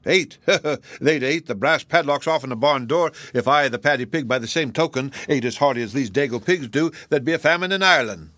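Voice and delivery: a hint of a chatty Irish express agent. Agent Flannery rambling about pig appetites, lightly Irish.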